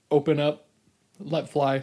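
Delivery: talking through burps; words broken by a burp. Real, not acted. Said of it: "I'm burping into the mic again".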